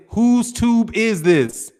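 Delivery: puzzled slow read. Real, not acted. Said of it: "the tube threw me".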